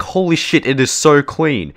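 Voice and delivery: high, amazed exclamation. Retold or imitated. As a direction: gasp at how clean it is. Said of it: "and I'm like".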